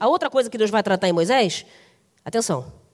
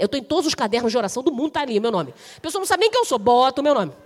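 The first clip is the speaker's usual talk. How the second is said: normal talking voice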